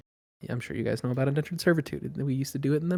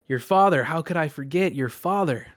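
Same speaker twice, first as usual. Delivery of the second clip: higher, suddenly louder feigned remembering; mock recognition; 4 semitones higher, 4 dB louder than usual. Captain to the boastful passenger, mockingly impressed. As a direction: play up the false deference.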